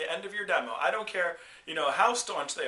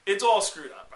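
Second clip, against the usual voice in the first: louder blurt of it's all screwed up; loud dude doctor; 2 semitones higher, 10 dB louder than usual. Retold or imitated. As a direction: blurt out the bad news like a careless surfer doctor. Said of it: "was like".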